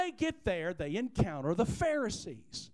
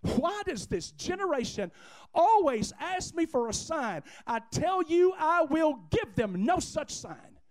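acted exasperation, raised pitch; exasperated; 6 semitones higher, 3 dB louder than usual. Jesus fed up with the Pharisees' demand for a sign, exasperated. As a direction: speak as if fed up with their demands. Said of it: "he gets exasperated".

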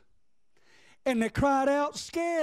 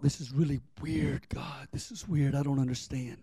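confused prayer; 5 semitones lower, 5 dB quieter than usual. Retold or imitated. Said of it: "I just thought".

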